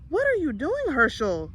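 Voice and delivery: a mother catching her son at mischief; demanding. A narrator's reading. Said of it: "she demanded".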